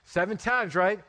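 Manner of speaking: lightly acted self-satisfied offer; casual, chummy bargaining; Peter/character. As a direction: pitch it low, pleased with the generosity. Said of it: "Peter thought he was being generous".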